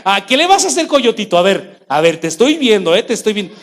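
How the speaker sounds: wag a finger at it; a lax shepherd teasing the coyote instead of acting; mock taunting.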